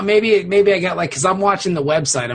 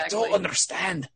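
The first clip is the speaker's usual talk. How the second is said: softer mock Scottish accent; lightly put-on Scottish voice, amused; Connor MacLeod; 6 dB quieter than usual. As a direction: toss it off in a bad Scottish accent. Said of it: "Connor McLeod voice".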